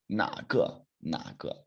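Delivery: 哪 in 哪个 low, dipping and drawn out; third tone. Shown as a demonstration. Teacher modelling for everyone to hear, low lingering third tone on 哪. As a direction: stretch a low 哪, then 个. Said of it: "Everyone needs to hear that".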